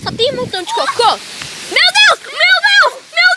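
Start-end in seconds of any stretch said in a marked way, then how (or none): 1.7-3.3 high, loud Meu Deus; shocked. Real, not acted. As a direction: yelp it out in shock. Shock at the poop.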